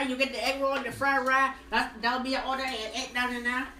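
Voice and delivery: put-on caricatured Asian accent; mock Asian accent. Taking an egg roll order, mock Asian accent. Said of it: "Now do the Asian one".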